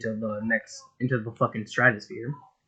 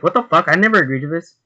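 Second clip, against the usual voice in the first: indignant yell; 6 semitones higher, 8 dB louder, faster than usual. Acted. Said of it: "Nami's like".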